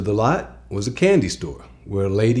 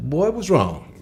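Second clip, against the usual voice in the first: put-on higher, worried "Boy, what's wrong?"; sister's worried call; 8 semitones higher than usual. Donna asking the scared boy, higher and worried. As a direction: ask it up high like a worried sister. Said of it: "she said".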